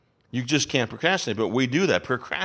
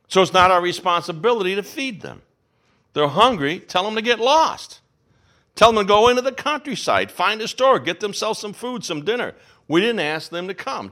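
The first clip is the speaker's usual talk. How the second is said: exasperated disciples; 4 semitones higher than usual. Acted. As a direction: wave the crowd away, fed up. Disciples voiced complaining to Jesus.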